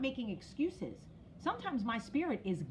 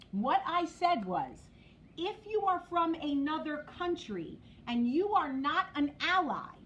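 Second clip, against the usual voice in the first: crystal clear. Real, not acted. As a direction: spell it out word by word. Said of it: "let me be crystal clear".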